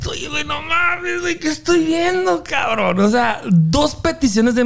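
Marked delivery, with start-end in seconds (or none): 0.1-3.0 higher, softer disbelieving gasp; as if you can't believe what's on stage; incredulous. Retold or imitated. Spectator seeing a second proposal, incredulous.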